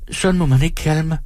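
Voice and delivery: put-on high, childlike woman; small thin voice, pitched well up; childish thin voice. A narrator's reading. Timid audience member answers the performer, childish thin voice. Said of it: "Hendes stemme er barnlig og tynd".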